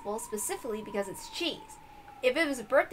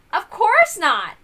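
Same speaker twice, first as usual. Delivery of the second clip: emphatic no; 6 semitones higher, 9 dB louder, much slower than usual. Acted. Rejecting silly guess.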